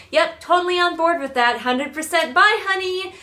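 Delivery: high, bright sing-song dismissal; mock careless parent. Mother mocking a careless parent, high and sing-song. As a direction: toss it off like a clueless mom. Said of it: "I would be stupid if I was like".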